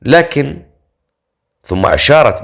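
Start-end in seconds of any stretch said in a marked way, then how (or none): 0.0-0.6 mildly puzzled, pitched higher; puzzled surprise. A narrator's reading. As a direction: break in with a touch of wonder. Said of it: "نظرت حولها بتعجب وقالت". (تعجب خفيف)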